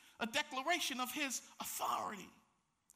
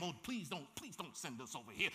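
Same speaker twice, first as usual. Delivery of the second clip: pleading demons; 7 semitones lower, 7 dB quieter than usual. Acted. Demons beg Jesus.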